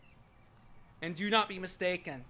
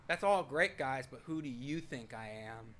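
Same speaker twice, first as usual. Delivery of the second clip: tender with force; 6 semitones lower than usual. Acted. Jesus asking the guys who he is, tender but firm. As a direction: acknowledge them, then press the question gently. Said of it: "Jesus spoke tenderly, and he spoke with force".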